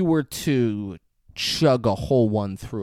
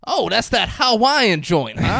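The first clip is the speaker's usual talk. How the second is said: mock intimidating; 8 semitones higher, 6 dB louder, slower than usual. Jackson quote, music.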